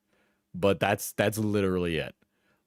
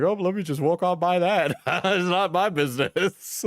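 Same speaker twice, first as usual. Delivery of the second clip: higher-pitched, laughing mock nonchalance; amused self-quote; 8 semitones higher than usual. Streamer retelling walking past an incident, laughing self-quote. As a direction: quote yourself lightly, breaking into laughter.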